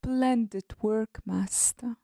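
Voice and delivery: put-on British accent.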